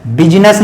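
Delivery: बिजनेस misread bi-ji-nas, vowel after j; wrong pronunciation. Shown as a demonstration. Teacher shows students the mistake again, wrong pronunciation. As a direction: put an extra i inside बिजनेस. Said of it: "बिजनेस नहीं".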